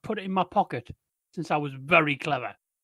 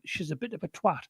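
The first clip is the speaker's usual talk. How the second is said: mock whisper; 2 semitones lower, 6 dB quieter than usual. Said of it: "whisper to him".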